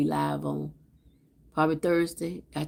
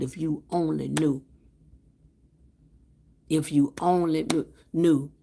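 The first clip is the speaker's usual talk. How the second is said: praying. Acted. Prayer for viewers ending live.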